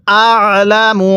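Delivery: আলামু with the ain squeezed from the throat, slowly; Arabic ain demo; throat-pressed ain. Shown as a demonstration. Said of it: "গলার মধ্যে চাপ দিয়ে পড়ব".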